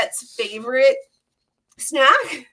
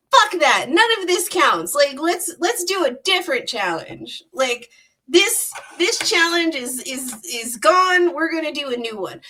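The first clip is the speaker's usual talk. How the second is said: indignant Set; 3 semitones higher than usual. Retold or imitated. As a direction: brush off the loss like a sore loser. Set refuses the verdict.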